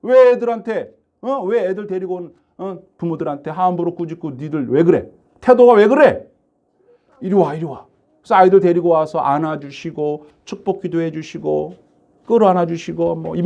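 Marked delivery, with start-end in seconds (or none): 0.0-7.9 Jesus scolding his disciples, lightly acted anger; angry rebuke. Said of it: "화를 내셨어요".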